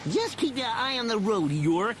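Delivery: high cartoon count giving orders; pitched far up, commanding; bossy order. A narrator's reading. Duckula ordering his driver, high and bossy. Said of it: "ordered Duckula".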